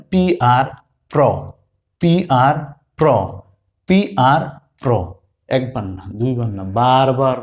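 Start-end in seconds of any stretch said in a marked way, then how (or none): 0.1-4.9 পিআর then প্র, again and again; teacher leading pronunciation practice; repetition drill. Shown as a demonstration. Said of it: "তাহলে আপনি বলবেন".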